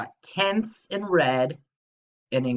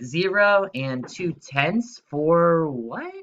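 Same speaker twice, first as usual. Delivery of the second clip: mock confused; 3 semitones higher, slower than usual. Shown as a demonstration. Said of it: "No, that's not how we read it".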